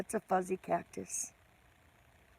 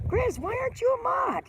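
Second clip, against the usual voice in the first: much higher and louder, in real astonishment; surprised; 5 dB louder than usual. Real, not acted. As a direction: blurt it out in sudden surprise. Surprised Grizz isn't a moderator.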